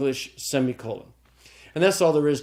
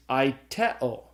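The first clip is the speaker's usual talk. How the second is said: aiteo slowly, stressed on TE; stress on middle syllable. Shown as a demonstration. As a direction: say "aiteo" as ai-TE-o, drawn out. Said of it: "accent the syllable with the epsilon".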